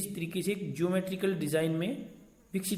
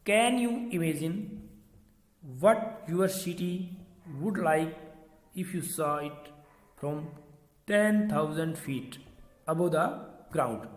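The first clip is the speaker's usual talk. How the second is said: slow, deliberate textbook reading; slow read-aloud; much slower than usual. Real, not acted. Teacher reading to children from the poem book, slow read-aloud. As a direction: read it out in separated phrases with long pauses. Reads the poem's introduction aloud.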